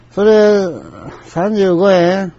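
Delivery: high-pitched, insistent customer imitation; haggling customer. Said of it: "こういう、面白い人やね".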